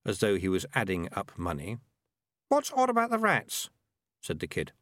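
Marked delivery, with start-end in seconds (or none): 2.5-3.7 put-on higher, lighter young boy voice; boy's voice. A narrator's reading. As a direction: voice the kid a touch higher. Kid character voice.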